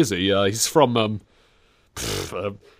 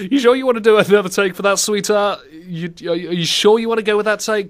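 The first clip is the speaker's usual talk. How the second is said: higher, coaxing doubt to an actress; mock director; 7 semitones higher, 4 dB louder than usual. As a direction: gently question the take, patronisingly.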